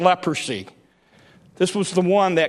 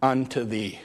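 Jesus speaking; 5 semitones lower, slower than usual. Acted. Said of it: "And he says".

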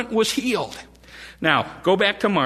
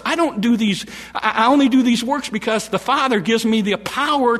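impassioned Jesus voice; 3 semitones higher than usual. Acted. Preacher voicing Jesus pleading.

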